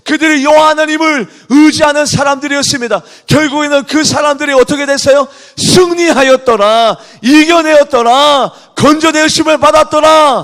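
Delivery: loud, high, fervent preaching; preaching at full force. Acted. Pastor rousing the congregation, loud fervent preaching. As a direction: proclaim it to the whole church.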